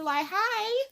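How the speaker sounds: high, coy flirting with a bouncer; flirty voice. Retold or imitated. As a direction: sweet-talk your way past the door. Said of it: "I'm about to bat my eyes to the bouncer".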